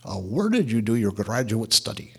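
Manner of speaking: a light hint of a broken Chinese English accent; just lean a touch into a Chinese man's broken English. A Chinese chemist asking the pastor about his degree, in lightly voiced broken English. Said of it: "in very broken English".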